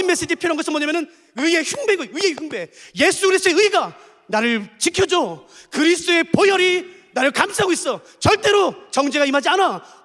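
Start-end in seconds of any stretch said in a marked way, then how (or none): 3.0-10.0 confident confession. Acted. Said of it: "라고 의의 흉배가 필요한".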